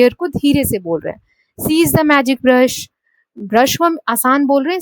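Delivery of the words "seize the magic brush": "Seize" louder, "brush" said easily; slow, hit "Seize" and relax on "brush"; stress on seize. Shown as a demonstration. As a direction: demo of falling command tone. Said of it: "seize को हम थोड़ा सा तेज बोल रहे हैं".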